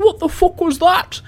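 high, loud, drawn-out shriek of disbelief; outraged bystander's cry from afar; startled distant yell. Acted. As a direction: yell it slow and high, like a shocked passer-by. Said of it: "someone goes".

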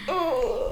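quietly acted cringe; pained groan. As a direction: wince out a small "oh". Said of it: "it hurts me on the inside".

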